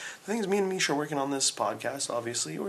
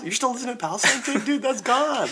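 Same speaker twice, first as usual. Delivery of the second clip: put-on Pakistani accent; 9 semitones higher, 4 dB louder than usual. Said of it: "It's like".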